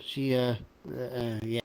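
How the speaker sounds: ordinary talk, nothing marked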